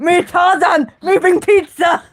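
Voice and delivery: caveman voice. Pretend. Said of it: "the caveman's not gonna know".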